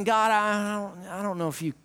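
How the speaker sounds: low, soft, hesitant mumble; low soft unsure stammer; timid prayer. Retold or imitated. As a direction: pray like you doubt he can help. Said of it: "coming to God saying".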